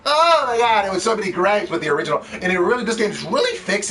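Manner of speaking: mock the reviewer's complaint; sarcastic mockery. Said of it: "every gripe I had".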